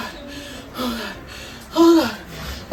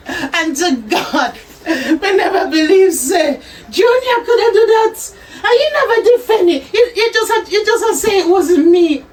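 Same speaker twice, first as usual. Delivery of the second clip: sobbing apology; 3 semitones higher than usual. Acted. Mother weeps, begs son's forgiveness.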